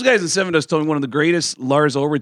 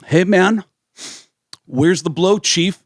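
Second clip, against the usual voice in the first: mock brash greeting; 6 semitones higher, 4 dB louder, slower than usual. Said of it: "Lars walks in and goes".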